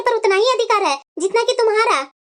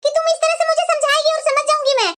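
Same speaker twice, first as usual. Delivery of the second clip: indignant protest; 3 semitones higher than usual. Acted. Daughter rejects her mother's scolding.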